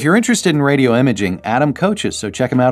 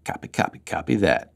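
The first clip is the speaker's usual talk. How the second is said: whispered; 4 semitones lower, 7 dB quieter than usual. Acted. Playful repeated whisper bit.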